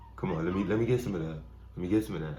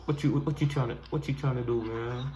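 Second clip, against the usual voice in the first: higher playful animal voice; voicing an animal; 5 semitones higher than usual. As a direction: dub the animal's thoughts.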